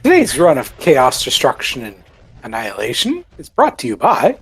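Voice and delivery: playful announcer, stretched phrases with swooping tune; mock sponsor announcer. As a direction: read it like a show's sponsor credit.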